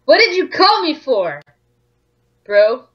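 a hint of a character voice; lightly voiced rival. Rival trainer asks why he was called, lightly voiced. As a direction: put on a cocky game-rival voice, lightly. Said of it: "I'm gonna do his voice".

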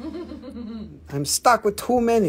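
laughing. Real, not acted. Laughs at own failed accent.

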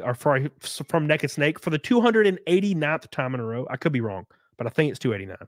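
breathing through the mouth, blocked nose. Real, not acted. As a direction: talk while short of breath through mouth. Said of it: "I'm out of breath 'cause I can't breathe out of my nose".

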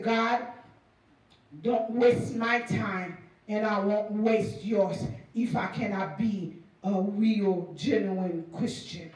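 low, slow, sincere plea; earnest prayer. Retold or imitated. New believer praying alone to God, earnest.

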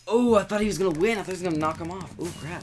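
high, loud disbelief; dismayed. Real, not acted. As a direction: cry out in dismay. Just lost the round.

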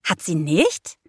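rising, puzzled question; puzzled, with a clear upturn at the end; confused question. A narrator's reading. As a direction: ask it in confusion. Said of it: "Ich sah Gabe verwirrt an".

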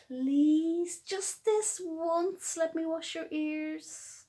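gently beg, lightly voiced mum; mummy begging. Mummy pleading with her bunny to wash. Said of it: "Hopscotch's mummy tried begging him".

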